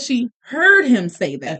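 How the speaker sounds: "heard" stretched for emphasis; slow down and lean on "heard"; pointed, drawn-out "heard"; stress on HEARD. Real, not acted. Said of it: "listen to what I said".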